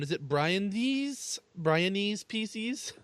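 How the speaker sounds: Brian D's P Cs, said slowly; mock pronunciation. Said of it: "do you speak Brianese".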